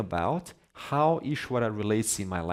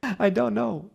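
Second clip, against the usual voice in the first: high, bubbly mock cheer; giddy delight; 11 semitones higher, 5 dB louder than usual. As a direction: ask it as if it were great news. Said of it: "Why are you so happy".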